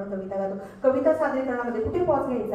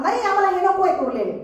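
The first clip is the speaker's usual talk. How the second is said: mock shout; 4 semitones higher, 4 dB louder than usual. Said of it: "आणि ते बोंबा मारतात".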